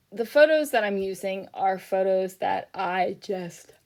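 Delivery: talking through a yawn. Real, not acted. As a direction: yawn mid-sentence. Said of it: "that yawn came out".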